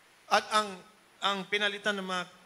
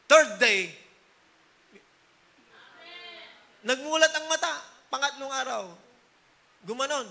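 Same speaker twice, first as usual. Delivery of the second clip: much louder, then pitched up high; preacher's triumphant climax, louder and higher; excited proclamation; 6 semitones higher, 6 dB louder than usual. Real, not acted. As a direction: announce the miracle triumphantly. Climax of healing testimony.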